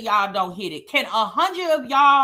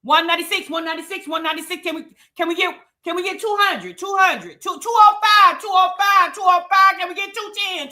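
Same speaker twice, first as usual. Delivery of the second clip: auctioneer; 2 semitones higher than usual. Pretend. Host begging chat for likes, light mock auction call. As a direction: rattle off the bid numbers like a playful auctioneer. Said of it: "I sound like I'm at an auction".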